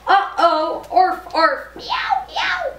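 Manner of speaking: loud barks, very high meows; animal noises. A narrator's reading. Teacher reads animal sound words to children, imitated barking and meowing. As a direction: yap like a dog, then mew high.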